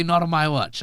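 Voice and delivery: badly faked American accent. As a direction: have a half-hearted go at an American accent. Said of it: "It's a terrible accent".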